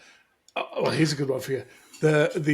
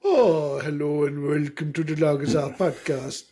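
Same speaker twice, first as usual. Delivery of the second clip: put-on voice. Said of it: "Can't be doing voices now".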